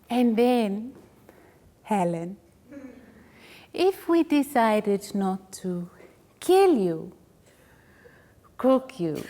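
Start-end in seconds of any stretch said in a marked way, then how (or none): 3.7-9.2 a whispered promise of violence; menacing whisper. Acted. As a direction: whisper it like a threat. Menacing aside to Helen.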